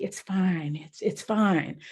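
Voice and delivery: the friend brushing off the turbulence; calm unbothered. Retold or imitated. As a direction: shrug it off.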